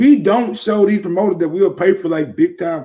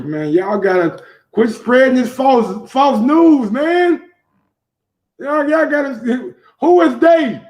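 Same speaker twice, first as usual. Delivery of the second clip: incredulous rant; 6 semitones higher than usual. Real, not acted. Host ranting at rumor spreaders.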